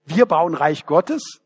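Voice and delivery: "Wir bauen Reich Gottes?" echoed with a disbelieving rise on "wir"; scornful echo, rising in disbelief; incredulous question. Real, not acted. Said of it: "Na, so eine Arroganz".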